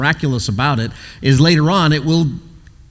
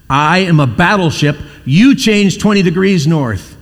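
upset captain; 5 semitones higher, slower than usual. Retold or imitated. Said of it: "this captain was upset".

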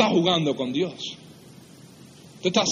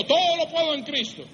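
high-pitched mock chanting; glib recitation; 9 semitones higher than usual. Preacher mimicking those who parrot the verse, glib. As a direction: rattle it off high, mimicking others. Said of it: "muchos que se han olvidado de ese versículo".

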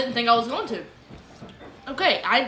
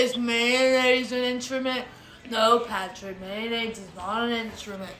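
SpongeBob quote; 3 dB quieter than usual. Retold or imitated. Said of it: "while we teach Patrick what an instrument is".

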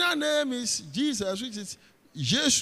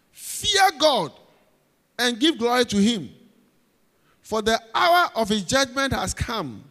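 angel's loud cry; 6 dB louder than usual. Acted. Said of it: "saying with a loud voice".

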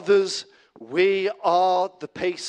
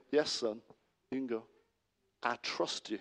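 quiet trust; 3 semitones lower, 6 dB quieter than usual. Retold or imitated. Father quietly granting trust to son.

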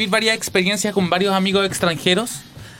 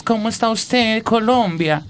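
drawn-out imitation Latin American accent; imitated foreign Spanish accent; 2 semitones higher, slower than usual. Shown as a demonstration. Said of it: "hablamos como mexicano, o bien".

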